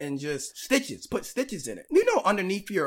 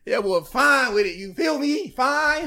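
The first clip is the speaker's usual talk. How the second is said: laughing; 6 semitones higher, 7 dB louder than usual. Real, not acted. Laughing defiance.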